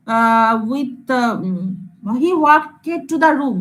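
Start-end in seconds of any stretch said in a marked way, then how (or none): 2.2-3.6 he walked to the room said very slowly, walked stretched with an extra vowel before the d; slow wrong example with walked split in two; slow demo. Shown as a demonstration. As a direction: spell out walked as walk-ed, very slowly. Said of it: "আমি কি এরকম বলি".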